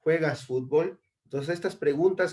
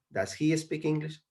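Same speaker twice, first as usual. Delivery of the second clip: "Does he speak English?" raised into a question; question intonation; 4 semitones higher, 3 dB quieter than usual. Shown as a demonstration. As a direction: model the asking tune on "Does he speak English?". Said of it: "Recuerden siempre cambiar el tono".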